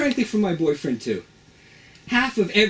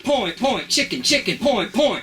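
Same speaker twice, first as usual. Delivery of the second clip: calling dance moves; 6 semitones higher, slower than usual. Acted. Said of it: "I'm doing the chicken like a singer".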